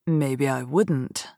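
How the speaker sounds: lightly voiced wary storyteller; doubtful storyteller. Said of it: "said the storyteller".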